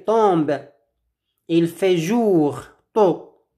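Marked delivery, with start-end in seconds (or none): 1.5-3.4 slow model phrase. Shown as a demonstration. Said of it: "Répétez après moi".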